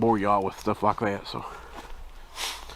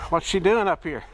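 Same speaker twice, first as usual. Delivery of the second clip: surprised; 7 semitones higher than usual. Real, not acted. Spots his dog up the hill.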